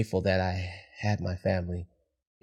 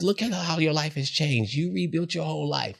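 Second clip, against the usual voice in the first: imitating sister; 8 semitones higher than usual. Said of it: "She says".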